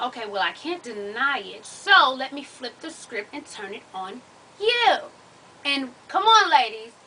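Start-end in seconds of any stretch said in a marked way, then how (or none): 0.0-5.0 lightly voiced sly guy turning it around; mock caught boyfriend. Caught man flipping the blame.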